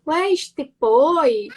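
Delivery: put-on slow, drawn-out Manezinho Florianópolis accent. Speaker showing her mixed accent, in a Florianópolis accent. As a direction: slip into the Florianópolis island accent, slowly. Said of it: "me vem um, um manezinho".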